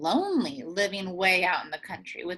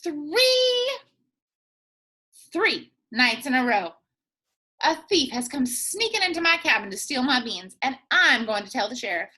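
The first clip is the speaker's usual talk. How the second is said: put-on old Granny voice; 3 semitones higher than usual. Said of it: "old Granny answered".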